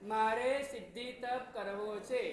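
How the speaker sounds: slow, drawn-out chant line; leading a repeat. Shown as a demonstration. Monk making the congregation say it over, slow chant lead. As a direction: spell out the vow slowly for repeating. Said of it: "એટલે ફરી વાર બોલો".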